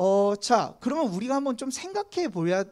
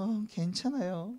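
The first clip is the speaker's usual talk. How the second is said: soft, slow polite reassurance; softly faked "it's fine"; feigned niceness; 5 dB quieter, slower than usual. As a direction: put on a nice, deferential front. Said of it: "되게 좋게 좋게 이야기하고".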